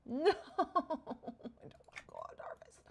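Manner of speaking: high fake-crying whine, fading away; mock whining. Player dreading another harvest, mock whining. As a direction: whimper it like a mock sob, trailing to nothing.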